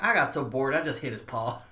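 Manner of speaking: put-on a light folksy regional accent, like an old relative telling a bar story; a slight folksy twang, just a hint of an old relative's accent; Bar guy's folksy accent. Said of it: "I don't know why I'm giving him that accent".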